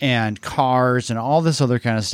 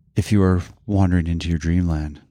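very low, seductive, sultry tone; 7 semitones lower than usual. A podcast host shows the voice for listeners drifting into dreamland: sultry voice. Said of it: "I do have that nice sultry voice to just be like".

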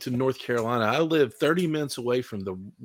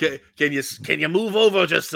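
put-on sounding like an old man; 4 semitones higher, 4 dB louder than usual. Retelling how wrestlers ask the crowd to move: imitating an old man voice. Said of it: "I don't know why they sound like an old man".

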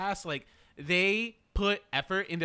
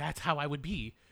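lower-pitched put-on whisper; 3 semitones lower, 3 dB quieter than usual. Retelling what someone whispered in the theater: imitating Eddie's whisper. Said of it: "Eddie whispers to me".

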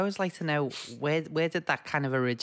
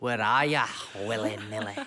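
put-on Scottish accent, lower pitch; 6 semitones lower than usual. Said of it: "You sound like Ali McCoist".

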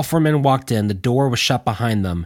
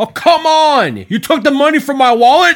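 very high-pitched, shrill, loud yell; 8 dB louder than usual. A man on the opposite side of the hut calls out to Willie, yelling out. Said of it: "yelled out".

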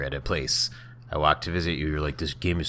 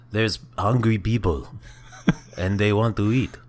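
spooky, loud, high vampire-like voice; 6 semitones higher, 5 dB louder than usual. Asked to try the line again: vampire-like voice. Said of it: "You sound like a vampire".

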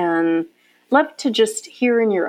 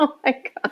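high exclamation, words spilling out through laughter; 7 semitones higher, 3 dB quieter than usual. Reacting with amazement to another speaker's business story: laughing while talking. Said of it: "I'm sorry I'm laughing".

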